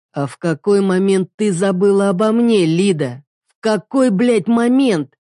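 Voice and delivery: slowing, swearing challenge; husband accusing wife; angry demand. Acted. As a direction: drag out the last words angrily. Husband snaps back.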